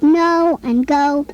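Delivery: slow, with the long O in "no" and "go" drawn out clearly; long O sound demo. Shown as a demonstration. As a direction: stretch the O vowel in "no" and "go" for the child. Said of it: "words that have the O sound".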